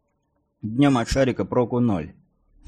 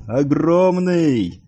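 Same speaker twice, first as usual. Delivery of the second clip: high, loud, long-drawn shout; stretched-out lookout's cry; yelling from aloft; 6 semitones higher, 5 dB louder, much slower than usual. A narrator's reading. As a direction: holler it slowly across a distance. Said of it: "орал сверху Олафсон".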